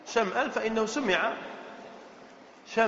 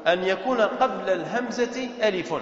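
measured dictation pace. Shown as a demonstration. Teacher dictates rule, then repeats.

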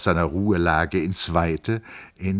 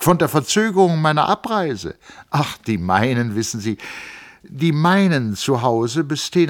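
a hint of the eager young engineer, higher; young man explaining his family; lightly voiced Hans Castorp; 7 semitones higher, 6 dB louder than usual. A narrator's reading. Castorp telling Settembrini about his uncles, lightly voiced.

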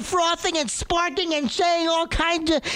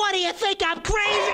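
angry shout; faster than usual. Acted. Old caller yelling at operator.

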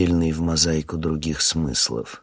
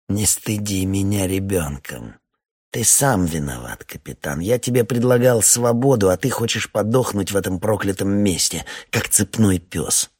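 the major grows louder and harsher; rising anger; 2 semitones higher, 4 dB louder than usual. Acted. The major scolds the stubborn captain, getting louder. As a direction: bark it like a cornered officer.

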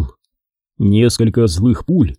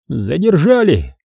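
mild worried mutter; 5 semitones higher, slower than usual. Acted. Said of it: "озабоченно пробормотал Сергей".

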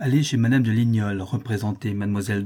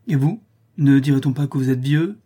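louder, higher retort; acted lover's-quarrel pique; piqued retort; 3 semitones higher, 5 dB louder than usual. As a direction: throw the remark back, mildly offended. Countess retorts to being called child.

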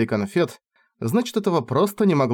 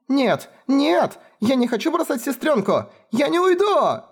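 screaming and crying; 14 semitones higher than usual. Acted. Lemil struggling against Kefar, screaming and crying not to leave. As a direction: fight it, half scream half sob. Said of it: "кричала и плакала".

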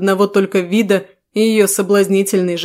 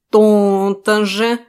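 smug cat voice; much slower than usual. Acted. Cat's reply.

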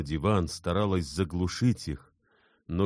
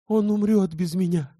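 much higher, much louder cry of despair; desperate exclamation; 8 dB louder than usual. A narrator's reading. Elena cries to Bersenev that he will die without her, much higher and louder. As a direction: cry it out, wringing your hands. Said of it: "воскликнула она".

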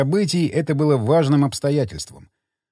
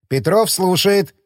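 sci fi communicator; 4 semitones higher, slower than usual. Acted. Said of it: "из коммуникатора раздался голос академика".

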